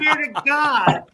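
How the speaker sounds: high, slow, earnest protest; pleading denial. Retold or imitated. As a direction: swear innocence like you mean it.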